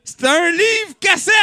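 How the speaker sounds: high, loud shouted punchline. Shown as a demonstration. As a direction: yell the punchline big. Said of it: "on va recommencer".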